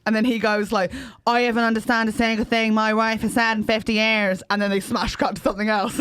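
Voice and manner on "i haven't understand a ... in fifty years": mock Belfast accent; imitated Belfast dad. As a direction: put on a rough attempt at Northern Irish. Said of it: "what you think Irish people sound like".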